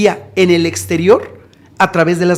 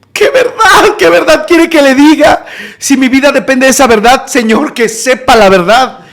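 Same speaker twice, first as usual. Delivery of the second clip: high, loud, desperate questioning; panicked plea; 6 semitones higher, 4 dB louder than usual. Retold or imitated. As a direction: plead as if your life depends on it. Retold panicked reply to captor.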